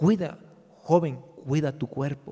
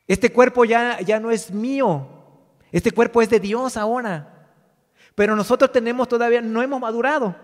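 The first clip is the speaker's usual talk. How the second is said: raised, higher preaching voice; 4 semitones higher, 5 dB louder than usual. Real, not acted. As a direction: preach it out to the congregation.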